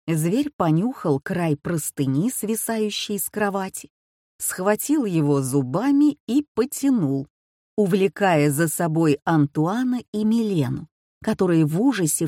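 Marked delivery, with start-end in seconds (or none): none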